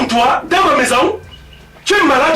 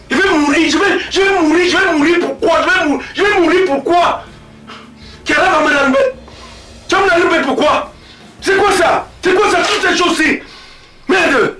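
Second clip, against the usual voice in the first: hysterical rant; 4 semitones higher than usual. Acted. Father ranting, near hysterical.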